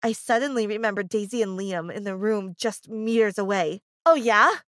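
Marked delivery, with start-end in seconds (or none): 4.0-4.6 loud, sharp comeback; exclaimed. Acted. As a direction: fire it back with a sneer. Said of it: "I exclaimed".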